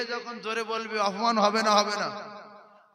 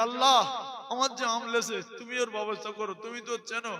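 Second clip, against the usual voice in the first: 2 a hint of a thief praying, much softer; 3 murmur it like a guilty prayer; 1 lightly voiced tearful thief; 3 dB quieter than usual. 4 thief praying in the mosque, soft and pleading.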